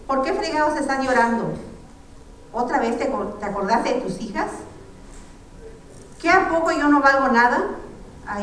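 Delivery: angry scolding, loudest on the "a poco yo no valgo nada" line; angry son. Acted. Son yelling at his mother for crying, angry.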